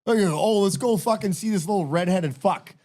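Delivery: mock the townsfolk hyped for a singer; lightly hammed-up gushing crowd; mock crowd excitement.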